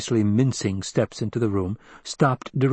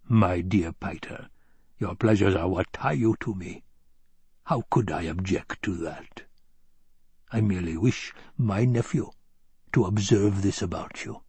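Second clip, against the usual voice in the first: baron, silky; 3 semitones lower than usual. Acted. Baron reassuring Piter about his pleasures, silkily controlling. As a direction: soothe him with measured, silky control.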